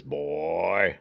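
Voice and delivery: lightly voiced Tall Man. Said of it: "he says".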